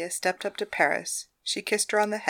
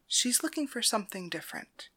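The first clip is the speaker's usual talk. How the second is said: whispered soft advice; 10 dB quieter than usual. Acted. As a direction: whisper it like a secret.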